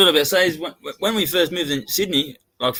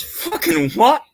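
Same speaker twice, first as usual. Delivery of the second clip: slow, much higher shocked "what?"; dad's disbelief; 8 semitones higher, much slower than usual. Retold or imitated. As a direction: stretch out the outrage like a stunned dad. Dad shocked at bearded under-tens.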